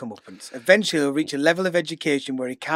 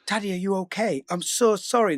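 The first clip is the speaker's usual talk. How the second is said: put-on lightly raised little-boy voice; a hint of a sorry son; rehearsed child apology; 5 semitones higher than usual. Dad voicing his son rehearsing an apology, lightly raised child voice. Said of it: "you're gonna say".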